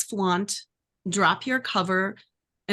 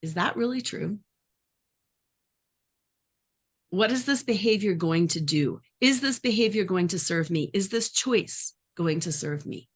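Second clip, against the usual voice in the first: gentle coach. Shown as a demonstration. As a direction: ask it gently, like a patient coach. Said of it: "the voice of the coach".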